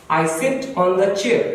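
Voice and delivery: every word stretched out very slowly; slow model sentence. Shown as a demonstration. Teacher reading the example slowly. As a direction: read "I sit on the chair" slowly. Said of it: "अगर मैं कहूं".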